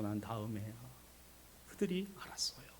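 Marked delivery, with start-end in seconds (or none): none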